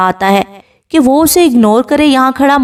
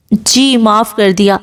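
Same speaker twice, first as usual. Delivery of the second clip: slow, bashful reply; shy; slower than usual. Acted. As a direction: answer shyly, eyes lowered. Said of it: "اس کے شرمانے پر". (شرماتے ہوئے آہستہ جواب)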